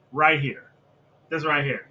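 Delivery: ordinary talk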